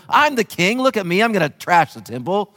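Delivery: a hint of a bragging tyrant; mocking arrogant king. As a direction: lampoon a swaggering king. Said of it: "as our brother on the internet wanted to portray".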